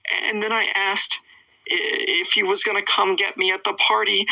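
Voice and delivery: high put-on voice of an upset boy; Trevor. Boy explains himself to the girl, mock upset. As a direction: plead it high like a rattled kid. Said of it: "he's like".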